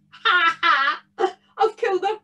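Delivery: a bogle savouring his win; gleeful bogle, lightly voiced. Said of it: "rubbing his gnarly, knotted hands".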